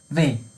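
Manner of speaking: وی, the letter W begun with a V; German W as "vey". Shown as a demonstration. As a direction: say وی with a V sound.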